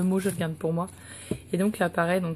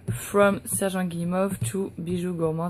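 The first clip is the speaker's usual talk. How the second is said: slow English with a French accent; clumsy French accent on English words. Real, not acted. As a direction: read English haltingly in a thick French accent. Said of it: "désolée pour mon accent anglais tout pourri".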